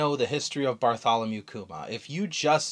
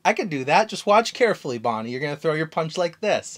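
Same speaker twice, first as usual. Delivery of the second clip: lightly voiced cocky Luffy showing off; Luffy telling Bonnie to watch his punch, confidently; 3 semitones higher, 4 dB louder than usual. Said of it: "and Luffy goes".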